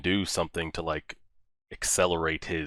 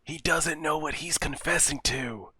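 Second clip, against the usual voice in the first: high, pained exclamation; agonised at someone's blunder; distressed disbelief; 9 semitones higher than usual. Real, not acted. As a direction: lament it in a raised pitch. Distressed at character's mistaken confession.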